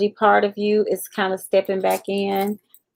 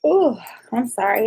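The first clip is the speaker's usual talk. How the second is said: yawning; 3 semitones higher than usual. Real, not acted. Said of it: "I'm just yawning".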